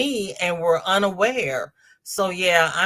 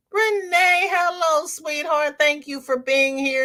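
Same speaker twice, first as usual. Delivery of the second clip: excited greeting; 9 semitones higher than usual. Real, not acted. Greeting a viewer joining the stream.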